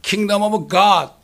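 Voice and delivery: "Kingdom of God" spelled out word by word, very slowly; slow deliberate English. Shown as a demonstration. Preacher contrasting it with Kingdom of Heaven, very slow. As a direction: set each word of "Kingdom of God" apart. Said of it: "이게 다른 거예요".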